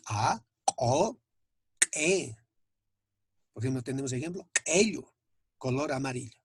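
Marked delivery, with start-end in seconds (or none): 0.1-2.4 "A, O, E" each opened with a popped back k; ejective Q. Shown as a demonstration. Teacher demonstrating Aymara Q apostrophe, explosive Q. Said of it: "la pronunciación correcta". 4.7-5.1 "ello" opened with a popped throaty k, louder; ejective Q. Shown as a demonstration. Teacher giving the Aymara word for yellow, explosive Q. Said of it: "co explosión".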